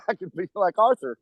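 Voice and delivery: a playful, half-hearted Birmingham gangster voice; mock British accent. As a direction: tease fans putting on a Peaky Blinders accent, quick and high. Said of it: "everybody just goes".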